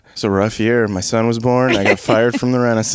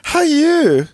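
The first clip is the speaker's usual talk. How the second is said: much higher simple-minded Gorn; 14 semitones higher, 3 dB louder than usual. Pretend. Playing Gorn for the hosts, higher simple voice. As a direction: say it like a sweet simple creature. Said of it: "The character that I've been doing".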